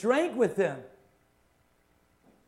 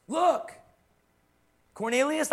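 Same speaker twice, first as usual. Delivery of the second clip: higher, loud call to Cornelius; excited Peter; 7 semitones higher, 4 dB louder than usual. Retold or imitated. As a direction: grab Cornelius's attention, raised and urgent. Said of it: "And so when Peter says".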